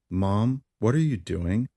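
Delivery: drowsy half-asleep question. Acted. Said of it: "I asked half asleep".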